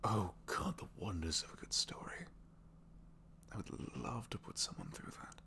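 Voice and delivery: soft wistful longing; dreamy whisper. Acted. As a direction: breathe it like a wish. Dreamy talk of stories.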